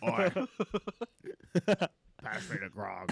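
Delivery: put-on British order at table; British accent. Playing a Brit for laughing friends, British accent. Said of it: "what's your best British accent?".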